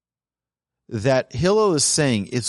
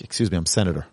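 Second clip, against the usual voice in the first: pompous senator; 8 semitones lower, 4 dB quieter, much faster than usual. Retold or imitated. Haughty senator voiced in example.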